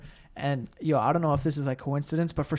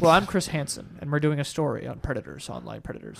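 softer, fading lightly voiced host; a hint of the deadpan host, trailing off; Chris Hansen impression; 4 semitones lower, 4 dB quieter than usual. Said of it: "and they're like".

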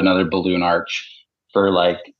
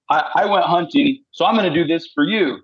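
mock husband bargain; 7 semitones higher than usual. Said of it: "It's like, or".

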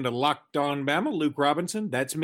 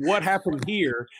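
a touch of Australian, drawled Southern; mild mock Australian-Southern; faux Australian with Southern drawl; 4 semitones higher than usual. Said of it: "with Australian accent, but with a Southern drawl".

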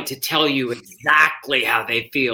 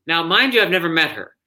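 ordinary delivery

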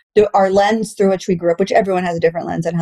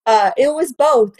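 slow, still chuckling; laughing; 5 semitones higher, slower than usual. Real, not acted. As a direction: settle the laugh into the answer.

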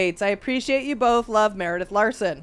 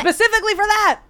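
infomercial gushing; 10 semitones higher, 6 dB louder than usual. Real, not acted. Gushing about product like infomercial.

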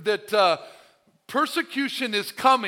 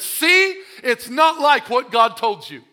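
higher, louder mocking tempter; taunting tempter; 4 semitones higher, 8 dB louder, slower than usual. The enemy showing us the world, higher mocking taunt. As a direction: taunt them with what they see.

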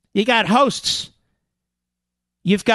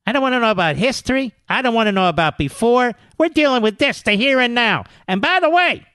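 mock indignant pundit; 3 semitones higher than usual. Host mimicking a pundit rejecting history, indignant. Acts out pundit refusing comparisons.

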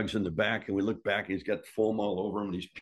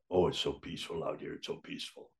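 softer, fading into a near whisper; dreamy murmur; 5 semitones lower, 6 dB quieter than usual. Retold or imitated. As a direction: drift off as if lost in the clouds. Mad Dog musing on the plane.

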